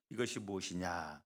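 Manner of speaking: low, let-down question; disappointed. Acted. Israelites first seeing manna, mildly disappointed and low. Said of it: "그런 마음이었던 겁니다".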